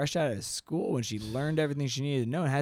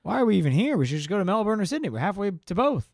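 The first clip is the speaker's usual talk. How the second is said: a hint of a fast, high Filipino accent; lightly camp Filipino accent, fast; gay Filipino accent; 6 semitones higher, faster than usual. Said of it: "gay Filipino accent".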